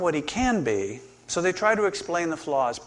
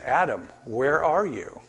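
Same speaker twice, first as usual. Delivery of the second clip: slow searching question. Shown as a demonstration. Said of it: "Why did he ask the question".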